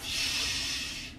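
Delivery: unvoiced whisper; whispered hush. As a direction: whisper it conspiratorially. Friend whispers sneaking.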